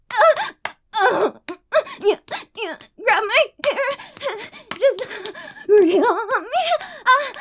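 performed moaning with gasps and cries; breathy moaning. Acted. Streamer performing for her chat, moaning throughout. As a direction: moan through every line, pleasure building.

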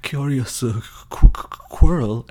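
high, slow, stuttering mockery; theatrical stammering villain; Quirrell's mocking villain. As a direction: sneer through a mock stutter. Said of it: "Quirrell basically drops the act".

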